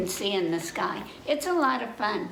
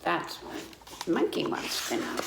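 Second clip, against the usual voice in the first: whispered aside; 5 semitones lower, 4 dB quieter than usual. Real, not acted. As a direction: drop to a whisper to let them in on it. Teacher's aside to the kids.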